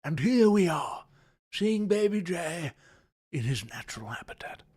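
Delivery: wildlife narrator, sinking to a whisper; hushed nature documentary. Acted. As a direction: narrate like a wildlife film, hushing at the end. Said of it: "This is the Discovery Channel".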